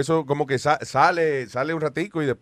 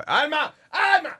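calling out; 11 semitones higher, much slower than usual. Real, not acted. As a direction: call her name from afar. Calling Alma across studio.

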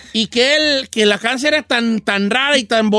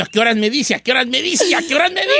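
impatient hoping. Retold or imitated. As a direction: ask it over and over, rising each time. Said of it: "como diciendo".

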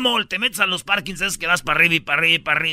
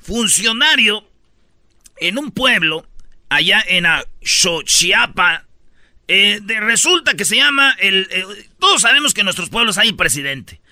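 news announcer; 3 dB louder than usual. Acted. Host announces news item.

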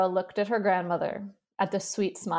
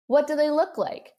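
higher, louder shout across the room; 8 semitones higher, 4 dB louder than usual. Acted. Boy shouting to the grandmother from the desk, excited shout. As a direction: call out eagerly from the desk. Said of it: "he shouted".

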